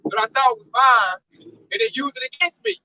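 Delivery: slow, offended devil voice, lightly put on; indignant devil. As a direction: draw it out like an outraged devil. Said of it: "Now the devil mad, like".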